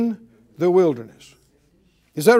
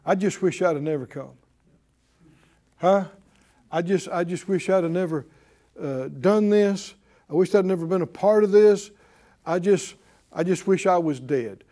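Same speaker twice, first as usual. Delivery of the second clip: mock whining; 3 semitones lower than usual. Preacher mimicking people who wish they were dead, whiny. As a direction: mimic a mopey complainer. Imitating self-pitying talk.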